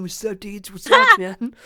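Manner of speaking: a lightly voiced blond surfer dude, calling out; surfer dude Todd. Greeting his TikTok viewers as Todd, in a put-on surfer voice. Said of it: "Blonde wig on".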